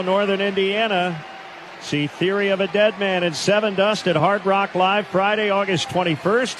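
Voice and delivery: smooth, steady sponsor read; announcer's scripted plug, evenly paced. Real, not acted. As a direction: deliver it as an in-game radio promo. Sponsor read after home run.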